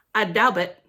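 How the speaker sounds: doubt sounded with the silent B spoken; wrong pronunciation. Shown as a demonstration. Reader shows kids the wrong way to say doubt. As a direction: say doubt as "dowb-t", hitting the B. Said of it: "Nope, that's not how you say it".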